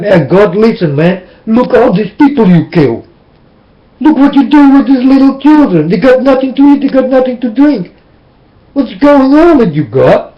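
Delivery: indignant complaint to God, mildly heated; retold accusing rant. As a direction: take God to task, pitch climbing as it goes. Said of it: "talk with God in a bad way".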